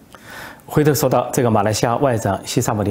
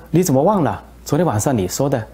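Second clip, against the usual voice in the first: higher, insistent how-could-you-forget; indignant reminder; 4 semitones higher than usual. Retold or imitated. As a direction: remind him sharply, half disbelieving. Minister insists, upset.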